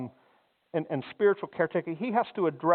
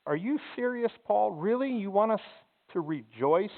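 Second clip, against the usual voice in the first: incredulous; 3 semitones higher than usual. Retold or imitated. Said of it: "hands that go up and say".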